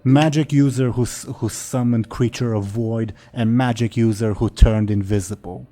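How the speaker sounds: loud, broken dragon speech; booming dragon accusation. Acted. Dragon answers.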